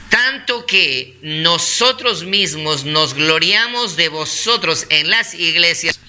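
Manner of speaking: deliberate, drawn-out scripture reading; unhurried, measured recitation; slow, calm reading. Real, not acted. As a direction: read the verse out slowly for the congregation. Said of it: "es leerlo despacio, calmado".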